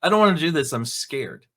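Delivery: whiny coward, voice dropping to a small scared mumble; mock scared kid. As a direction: play the coward, shrinking on scared. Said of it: "feels like he's a coward".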